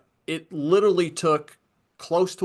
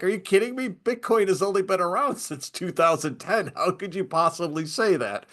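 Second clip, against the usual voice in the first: retold incredulity; 3 semitones higher than usual. Host retelling their comeback to a laughing CTO, incredulous.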